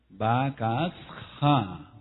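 "Bakasja" with S, then a Spanish jota in "ja"; "Bakasja" drawn out, the H said as Spanish J. Shown as a demonstration. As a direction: sound out "Bakasja" slowly, rasped J at the end. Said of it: "porque la H suena como J".

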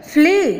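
ફ્લી pitched high, as a model; teacher's high model ફ્લી; English pronunciation demo. Shown as a demonstration. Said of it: "અંગ્રેજી ઉચ્ચાર થશે".

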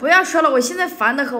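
exasperated snap. Real, not acted. Friend snaps to stop arguing.

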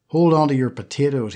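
신나서 외치듯 가볍게; 기쁨에 찬 아이의 외침; gleeful shout. Acted. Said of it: "he shouted gleefully".

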